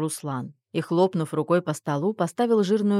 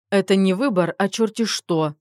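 louder, higher snap; snapping back; 3 semitones higher, 5 dB louder than usual. Acted. Mother-in-law snaps back at her son, louder. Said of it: "огрызнулась свекровь".

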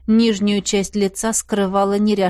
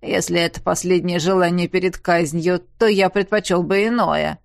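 mocking prisoner. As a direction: sneer it like a defiant captive.

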